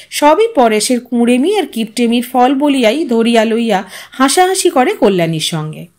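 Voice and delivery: ordinary delivery, nothing marked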